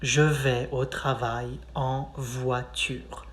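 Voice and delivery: slow clear drill; slow repeat. Shown as a demonstration. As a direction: say it slowly for them to copy. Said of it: "You say".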